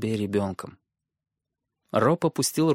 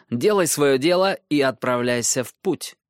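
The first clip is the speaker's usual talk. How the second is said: put-on stern young lord; 3 semitones higher, 4 dB louder than usual. Robb dismisses Tyrion.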